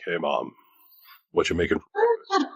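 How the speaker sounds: a hint of a deep man's voice; deep adult voice. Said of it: "No, it was like".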